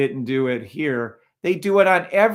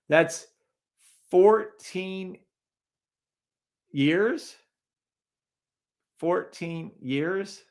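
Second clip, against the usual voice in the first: high, laughing disbelief; can't believe the number, laugh it out; rising amazed question; incredulous laugh; 5 semitones higher, much slower than usual. Real, not acted. Host shocked at 14-year chart.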